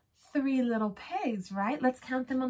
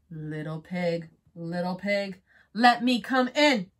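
wolf voice; 4 semitones lower, 3 dB louder than usual. Acted. Wolf calls at the door.

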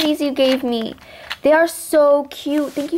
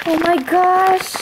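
drawn-out awe; 4 semitones higher, much slower than usual. Real, not acted. Reacting to extras, drawn out.

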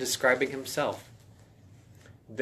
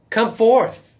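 mighty command; 10 semitones higher, 10 dB louder than usual. Acted. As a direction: raise the dead with a high, loud call. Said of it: "the same phrase he used when he raised Lazarus".

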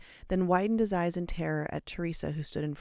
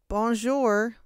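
brave reply; 6 semitones higher, 7 dB louder than usual. A narrator's reading. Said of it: "braved a few brave students".

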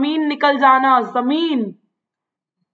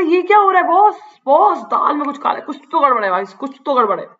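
suspicious M Hamel; faster than usual. Retold or imitated. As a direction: play a puzzled teacher sensing something fishy. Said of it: "कह रहे".

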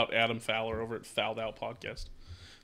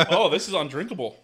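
laughing; 3 semitones higher than usual. Real, not acted. Laughing at the awful drink.

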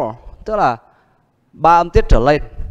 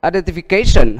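stressed on the syllable "ca" of "Identification"; stress demo; 2 semitones higher, 5 dB louder than usual. Shown as a demonstration. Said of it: "đó là identification". (nhấn vào âm "ca" trong "Identification")

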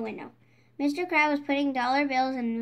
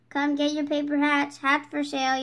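street vendor yell; 4 dB louder than usual. Acted. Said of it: "yelled Patrick".

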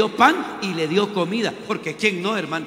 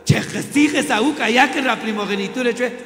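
careless Esaú; 5 semitones higher, 5 dB louder than usual. Acted. Careless Esaú gives up birthright.

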